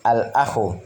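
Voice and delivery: Al-akhu with the l clearly sounded; alif lam pronounced. Shown as a demonstration. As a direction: voice the lam of Al-akhu before the second a. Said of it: "dibaca alif lamnya".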